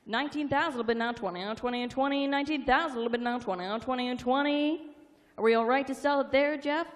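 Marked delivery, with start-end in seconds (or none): 0.1-4.8 rapid rolling auction chant; auctioneer. Real, not acted. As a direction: rattle off the bids like an auctioneer.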